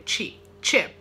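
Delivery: chi, chip with a crisp TCH start; CH sound drill. Shown as a demonstration. Teacher drills the CH sound with students, chip with a TCH start. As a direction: chip said like "tchip". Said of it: "C H tem que ter esse som".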